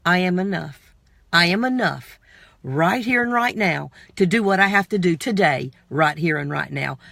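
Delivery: slow, low, deliberate affirmation. Shown as a demonstration. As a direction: recite it slowly like a mantra. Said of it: "Say it with me".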